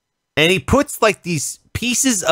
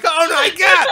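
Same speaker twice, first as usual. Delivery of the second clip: mock panic; 13 semitones higher, 3 dB louder than usual. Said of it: "In my brain, that's what I was doing".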